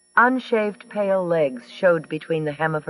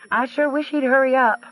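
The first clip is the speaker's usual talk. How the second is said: pressed, high and urgent; insistent, impatient plea; more emphasis; 10 semitones higher than usual. A narrator's reading. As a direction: lean hard on every word. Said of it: "this time with more emphasis".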